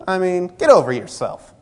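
huffy, snippy retort in a mock offended voice; scoffing at a brother who snubbed him; mock indignant. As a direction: toss it off like a wounded ego. Offended quote in hallway story.

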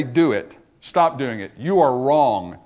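lightly voiced God giving orders; stern command, drawing out the last words. Preacher voicing God rebuking a sinner, stern and slowing. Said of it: "heard the voice of God say".

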